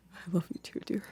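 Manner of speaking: crying, tearful, breathy near-whisper. Thanking a partner after being brought to tears: crying while talking. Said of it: "bring me to tears".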